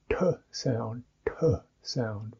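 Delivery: "t sound" with a puff of air on the t; aspirated t. Shown as a demonstration. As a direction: breathe out hard on the t of "t sound".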